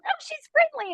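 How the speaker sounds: pig owner. Retold or imitated. Pig owner voiced, high.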